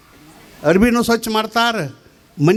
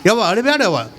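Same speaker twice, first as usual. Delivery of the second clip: half-sung, hammed-up comforting; comically wailed consolation; mock tearful consoling; 3 semitones lower than usual. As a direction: imitate mourners coaxing tears while consoling. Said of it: "ಹಿಂಗೆ ಮಾಡಿ ಅಳಿಸ್ತಾರೋ".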